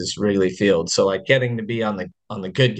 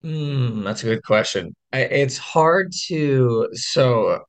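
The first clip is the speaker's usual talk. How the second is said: hoarse voice. Real, not acted. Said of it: "right now I have no voice".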